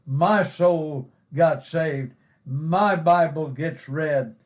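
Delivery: slow delivery with "my" and "My" leaned on; emphasis on my. Shown as a demonstration. Preacher wearing that word out, stressing "my" and "My". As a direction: wear out "my" and "My" with weight. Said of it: "just wear that word out of my".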